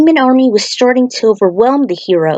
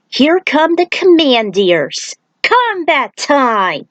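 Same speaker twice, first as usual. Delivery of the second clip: rallying battle cry; 6 semitones higher, slower than usual. Acted. Character rallies the party.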